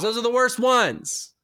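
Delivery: high, drawn-out dismay; imitating aghast dentist. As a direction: stretch it out in mock horror. Retold dentist aghast at kettle chips.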